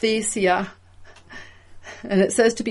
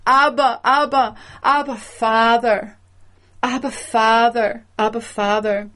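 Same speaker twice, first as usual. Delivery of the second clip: crying out. Acted. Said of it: "This is the cry of the Spirit".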